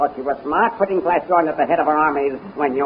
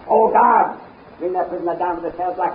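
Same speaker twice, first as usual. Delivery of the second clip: angry outburst; 5 semitones higher than usual. Acted. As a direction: snap with impatience. Tal angrily summons guards.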